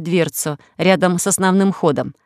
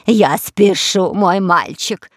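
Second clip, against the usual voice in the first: calling out; much slower than usual. Acted. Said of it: "кричала она".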